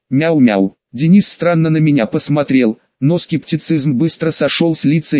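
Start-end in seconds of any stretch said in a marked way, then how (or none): 0.1-0.8 called-out cat meow; loud meowing. Acted. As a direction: call like a cat at the door. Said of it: "громко произнёс".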